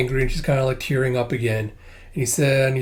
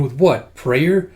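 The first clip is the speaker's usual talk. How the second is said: scoffing scientist; 4 dB louder, much slower than usual. Acted. Scientist doubts the revival, scoffing. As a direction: toss it off as a skeptical scientist. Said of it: "it's the scientist going".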